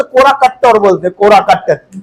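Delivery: "कोरा कट्ट" with the doubled tt held hard; teacher showing the local "कोरा कट्ट" to the class; local dialect word. Shown as a demonstration. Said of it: "हमारे यहां तो general भाषा में कोरा नहीं बोलते".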